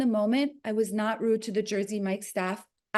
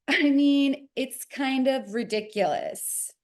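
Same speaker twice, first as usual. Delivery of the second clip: snooty man; slower than usual. Retold or imitated. Rude man in line.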